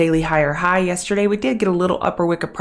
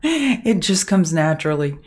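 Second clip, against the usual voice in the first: repeating it through a laugh. Shown as a demonstration. Streamer laughing at her own motherly nagging. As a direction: chuckle the words out, amused at herself. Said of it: "I'm a mother".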